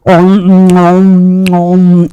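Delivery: drawn-out nom-nom eating sounds; munch away like a foodie; munching noises. Acted. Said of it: "eat. He's a foodie".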